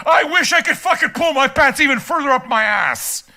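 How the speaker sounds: lightly hammed-up uptight complainer; mock a prissy whiner; mocking Phil Jackson. Mimicking the uptight commenter.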